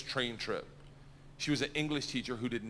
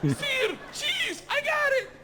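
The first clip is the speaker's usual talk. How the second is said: beaming learner asking for more; eager student. Retold or imitated. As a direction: bounce up for the next word. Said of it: "and I was like".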